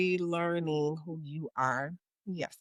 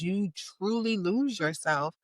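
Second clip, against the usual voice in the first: ordinary talk, nothing marked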